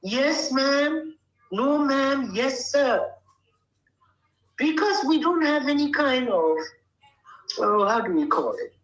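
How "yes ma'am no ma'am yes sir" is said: polite yes sir. Shown as a demonstration. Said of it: "That is how you answer".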